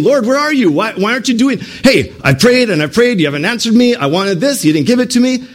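high whiny complaint to God; accusing God. Acted. Believers accusing God in prayer, high whiny complaint. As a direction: pout at heaven like a spoiled child. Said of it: "We often accuse him".

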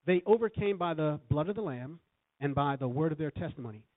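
overcame stressed, steady preaching cadence; emphatic recitation. Shown as a demonstration. Preacher having congregation repeat scripture, emphatic. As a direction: proclaim it to the church. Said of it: "Say this".

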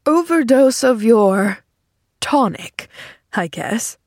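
slow, wry amusement; laughed. A narrator's reading. Patient teasing his doctor, mild amusement. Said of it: "he laughed".

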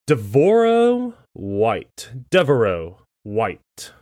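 slow, careful attempts at "Devorah White", "Devereaux White"; tentative name tries. Shown as a demonstration. Guessing an actor's name for cohost, slow and halting. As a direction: sound out the name slowly, unsure. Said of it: "let me try to butcher this guy's name".

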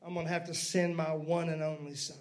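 preacher voicing God resolving to send his son, low and soft. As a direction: speak as God, low and quiet. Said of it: "finally he says".

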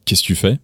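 "Qu'est-ce que tu fais" squeezed to "kess-tu-fais"; que dropped, words run together; linked casual contraction. Shown as a demonstration. Teacher quoting what you say to workmates, casually linked. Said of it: "You'll still say".

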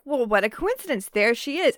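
playful mock astonishment; feigned surprise. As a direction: pretend it's a happy coincidence. Acts out Colin feigning surprise.

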